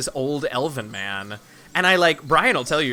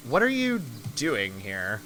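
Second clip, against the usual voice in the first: lightly voiced character, lower and slow; slow the question right down, slightly lower; player character Harmony; 4 semitones lower, 3 dB quieter, slower than usual. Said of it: "I forgot who he was".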